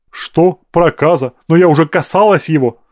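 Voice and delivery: startled, alarmed questioning; frightened. A narrator's reading. Madam learning she touched a leper, frightened. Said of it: "испугалась женщина".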